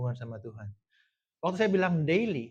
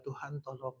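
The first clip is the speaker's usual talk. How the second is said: mild, subdued prayer for help; restrained call; 12 dB quieter than usual. Shown as a demonstration. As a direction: call on God politely and quietly. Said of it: "Yang istilahnya kalau manggil Tuhannya bukan".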